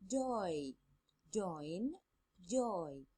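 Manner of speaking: put-on slow, clear "oi" in each word, "Toil" "boy" "joy" stretched; oi sound drill. Shown as a demonstration. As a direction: model the long "oi" in "boy" and "joy" for students to copy. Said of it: "So they make the same sound".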